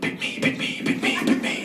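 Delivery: whispering voices. Retold or imitated. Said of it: "they're like".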